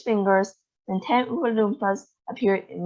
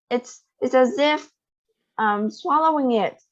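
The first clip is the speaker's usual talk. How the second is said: excited; 4 semitones higher than usual. Acted. Violet raving about gum flavor.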